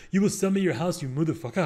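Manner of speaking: mock-aggressive demand in imitated African accent. Friend berating a stranger over the PA, mock-aggressive African accent. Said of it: "he would get super aggressive".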